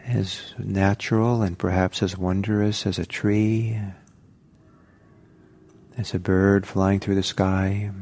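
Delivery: unhurried meditation guidance with long pauses; calm guided-meditation delivery, phrase by phrase. Real, not acted. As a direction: gently guide them into settling, leaving space between phrases.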